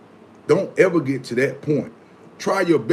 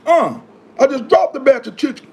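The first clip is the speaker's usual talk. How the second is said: high, loud flustered outburst; teen cook yelling at customers about the dropped chicken, flustered shout; frantic shout; 11 semitones higher, 6 dB louder than usual. Retold or imitated. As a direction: yell it like the whole batch just hit the floor. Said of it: "I go crazy".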